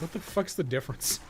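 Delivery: normal talking voice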